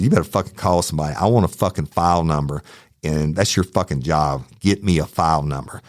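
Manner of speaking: fast furious demand to the officer; angry, fast demand. Retold or imitated. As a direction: snap out the demands quickly. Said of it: "I was fucking livid".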